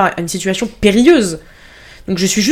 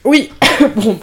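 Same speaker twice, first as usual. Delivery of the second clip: talking through a cough; coughing fit; 3 semitones higher than usual. Real, not acted. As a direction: cough breaking into the words. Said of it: "j'arrête pas de tousser".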